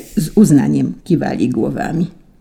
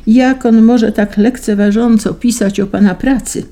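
higher, louder mock indignation; feigned outrage; 6 semitones higher, 4 dB louder than usual. A narrator's reading. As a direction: put on a show of being offended. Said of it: "udałem oburzenie". (udawane oburzenie, wyżej i głośniej)

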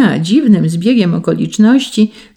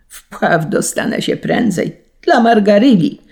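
swelling to a loud high cry on the name; piercing scream; 5 semitones higher, 3 dB louder than usual. A narrator's reading. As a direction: build to a desperate shriek before the leap. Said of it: "krzyknął przeraźliwie".

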